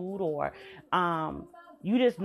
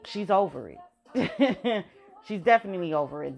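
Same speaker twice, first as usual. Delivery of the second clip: laughing. Real, not acted. Laughs while saying it.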